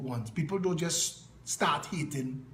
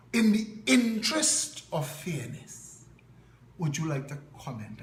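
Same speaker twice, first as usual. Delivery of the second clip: mimicking a Chaguanas reporter. Chaguanas reporter phoning him for comment, in a mild mock accent. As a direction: play the trained-voice Chaguanas caller, measured and proper. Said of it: "with a Chaguanas accent".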